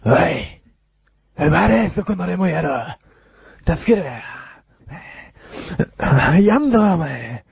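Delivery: slow, rising thug threat; japanese delinquent tough talk. Pretend. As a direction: bark at the passer-by. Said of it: "今度俺ヤンキーやるわ".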